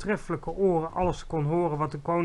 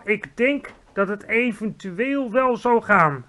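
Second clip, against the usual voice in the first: reluctantly; 6 semitones higher, 6 dB louder, slower than usual. A narrator's reading. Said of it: "gaf het hoofd van de luchtmacht met tegenzin toe".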